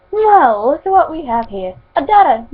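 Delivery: lightly voiced Scottish villain; attempted Scottish accent, high and lively. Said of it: "the man said in a Scottish accent".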